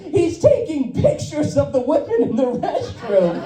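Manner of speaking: mock scream. Woman alerting the White Castle to a restroom photographer, mock scream. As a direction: imitate an alarmed woman crying out, not at full volume. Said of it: "She screams that".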